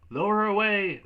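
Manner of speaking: loud high officer's shout. Acted. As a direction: bark the command. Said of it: "the officer shouted".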